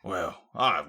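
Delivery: bad British accent. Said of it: "this isn't a very good British accent".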